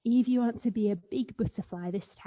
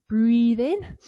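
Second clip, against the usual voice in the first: energetic cue; 3 semitones higher, 9 dB louder than usual. Shown as a demonstration. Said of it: "you ready to do it with me?".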